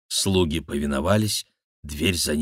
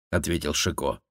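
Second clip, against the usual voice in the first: ordinary delivery, nothing marked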